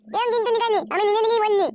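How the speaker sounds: loud, high angry yell; angry shout. Acted. Son yells back at his stepmother, furious shout. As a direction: shout her down in fury.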